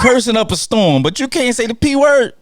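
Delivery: loud, high, laughing complaint; laughing protest. Real, not acted. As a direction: tease them through laughter. Teasing host about cursing.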